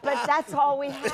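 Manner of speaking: high laughing whine through giggles; laughing protest. Retold or imitated. Actress telling the Joe Papp story, laughing protest. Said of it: "We were like".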